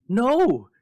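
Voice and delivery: high, loud triumphant cry. Acted. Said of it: "she cried triumphantly".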